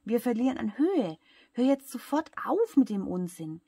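loud, high, ranting complaint; shrieky telling-off, narrated at full voice; scolding. A narrator's reading. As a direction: order them to stop this at once. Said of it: "schimpft die Luftmatratze".

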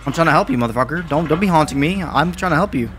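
worked-up pleading with some edge; agitated protest. Real, not acted. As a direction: plead loudly, rattled by the haunting. Pleads with a haunting game ghost.

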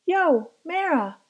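"Mira" with a short E, like "Mehra", after a casual "Yo"; a kid casually saying "Mehra"; name mispronounced. Acted. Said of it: "stretched out the I".

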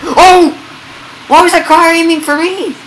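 a scared yelp that breaks into laughter; startled shriek. Real, not acted. Startled by car.

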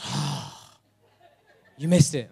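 laughing as the wife; a laughing "you missed it"; teasing wife. Retold or imitated. Wife laughs at her husband for missing the turn. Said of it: "my wife goes".

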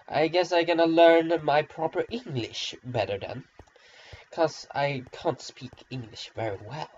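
mock-contrite, tongue in cheek; sarcastic self-mockery. Real, not acted. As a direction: feign apology with dry sarcasm. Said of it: "you don't hear the sarcasm in my voice".

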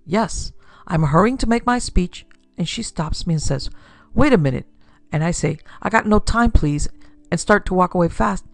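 anxious little man explaining; nervous immigrant man. Acted. Rigginoff's voice held in story.

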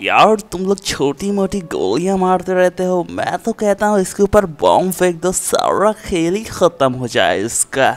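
very low, deep villain voice; deep-voiced menacing boss. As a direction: threaten in a deep put-on voice. Villain character urges bombing.

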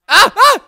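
two short, high loud yelps; startled yelps. Real, not acted. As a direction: yelp in sudden alarm. Przestraszony okrzyk przy upadku. (krótkie, wysokie okrzyki przestrachu)

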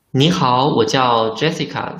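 spoken as a model line for the class; model dialogue line. Shown as a demonstration. Teacher models the greeting for students, in clear Mandarin. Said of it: "We start from A".

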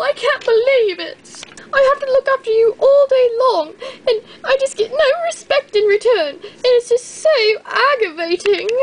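whiny tearful rant. Acted. Overlooked llama complains to the others, whining tearfully. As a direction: rant as if about to cry.

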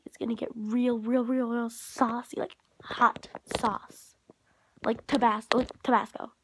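teasing whisper. Real, not acted. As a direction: whisper it like juicy gossip. Teasing gossip.

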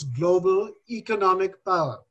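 "economic" given deliberate emphasis; stress on economic. Real, not acted. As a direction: underline the word "economic" with the voice. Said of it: "I underline the word economic".

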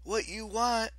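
high-pitched, gentle persuasion; soothing. A narrator's reading. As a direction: coax the goddess toward rest. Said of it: "Piper said soothingly".

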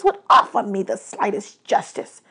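lightly voiced, aggrieved god; bitter god of the dead. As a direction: let the outburst settle into restrained resentment.

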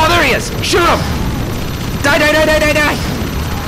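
high, urgent battle yell; excited, high-pitched attack cry; frantic shouting. Real, not acted. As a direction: yell in the heat of a firefight. Spots enemy, urges shooting.

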